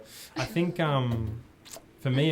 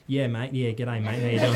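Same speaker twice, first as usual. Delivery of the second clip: hammed-up Aussie accent, a bit louder at the end; exaggerated Australian accent; 4 dB louder than usual. Greeting new people in a mock Outback-ad Australian accent. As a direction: lay the Australian accent on thick. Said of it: "I like doing the Australian accent".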